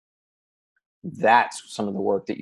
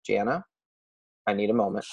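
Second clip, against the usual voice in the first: softer, measured, retold calm reply; 5 dB quieter than usual. Answering an angry friend on a call, very calm. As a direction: set a boundary calmly and softly. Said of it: "I said very calmly".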